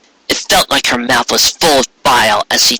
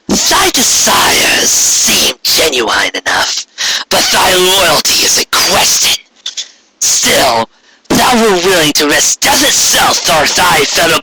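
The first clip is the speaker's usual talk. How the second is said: slow, stately archaic royal voice; regal alicorn queen; 5 semitones higher than usual. Acted. Corona addressing Trixie, slow and stately. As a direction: speak like an imperious queen granting favor.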